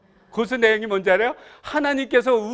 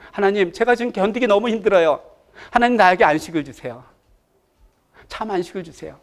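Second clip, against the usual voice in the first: prayer demonstration. Shown as a demonstration. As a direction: show how to ask God for rest. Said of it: "기도는 이렇게 하는 거예요". (기도하듯 간구하며)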